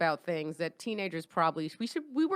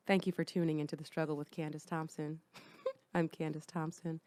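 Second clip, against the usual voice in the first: seductive voice; 3 semitones lower, 6 dB quieter than usual. Acted. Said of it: "kind of like a seductive voice".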